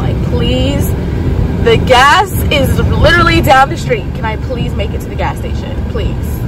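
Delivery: breathless pleading; begging under panicked breath; hyperventilating. Real, not acted. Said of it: "I'm literally hyperventilating right now".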